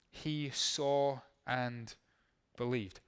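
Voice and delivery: slow, stressed "saw" before "believed"; emphasis on saw. Shown as a demonstration. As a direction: lean on "saw", then land "believed". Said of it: "Catch this phrase".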